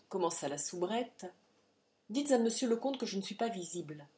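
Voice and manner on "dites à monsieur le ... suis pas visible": quick, cutting refusal; violent interruption. Acted. Adrienne cuts off the maid, a quick sharp refusal. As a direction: cut the maid off hard, fast. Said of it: "interrompit-elle presque avec violence".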